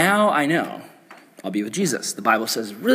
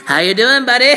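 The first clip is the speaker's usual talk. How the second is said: creepy ghost; 7 semitones higher, 5 dB louder than usual. Pretend. Same pretend ghost greeting friend.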